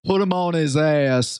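"ass" stretched toward "ay-ess"; extra Y in ass. Retold or imitated. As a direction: quote it with a Y glide in "ass". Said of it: "We put that extra Y in ass".

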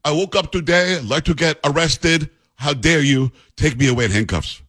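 mock Swedish accent that barely lands; bad Swedish accent. Mocking Greta in a poor Swedish accent. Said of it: "That was my Swedish accent".

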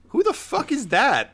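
high-pitched, baffled exclamation; incredulous outburst. Acted. Overheard as the prisoner is dragged out, high incredulous cry. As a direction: blurt it out high in disbelief.

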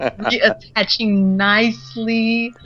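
slow, deliberate progress report; mock medical report. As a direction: pronounce the recovery slowly, word by word. Mock report on Travis's recovery.

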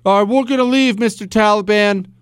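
声を高くして卑屈に降参するふり; sarcastic, meek voice of a pushover giving in; mock surrender. Mocking America caving to Taliban.

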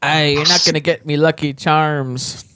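mock Irish accent. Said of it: "That's what he sounds like".

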